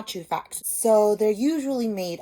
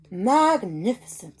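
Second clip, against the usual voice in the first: mock amazement; 6 dB louder, slower than usual. Elizabeth praising the dragon.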